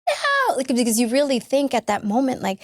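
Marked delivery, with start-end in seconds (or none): 0.1-0.5 laughing no. Retold or imitated. Laughing denial of fear.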